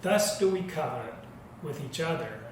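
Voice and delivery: steady, measured covenant recital; liturgical recital. Acted. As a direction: lead the congregation in the covenant.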